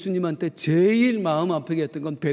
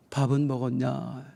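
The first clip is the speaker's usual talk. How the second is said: gentle question; 5 semitones lower, 4 dB quieter than usual. Retold or imitated. Jesus gently asks Peter.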